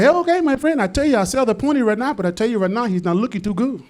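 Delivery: put-on Hispanic pony seller's accent. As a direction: make a sales pitch in Hispanic accent. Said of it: "Hispanic guy".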